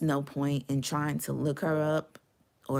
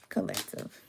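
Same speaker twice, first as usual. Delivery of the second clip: soft call; 8 semitones lower, 9 dB quieter than usual. Shown as a demonstration. Calling the viewers again.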